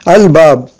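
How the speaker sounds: al-bab with a clearly sounded l; lam pronounced. Shown as a demonstration. Teacher giving an example of a qamariya letter, audible l in "al-bab". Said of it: "on prononce notre lam".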